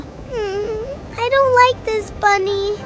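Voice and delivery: put-on frightened, tearful child; scared whimper. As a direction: whimper it quietly to a toy.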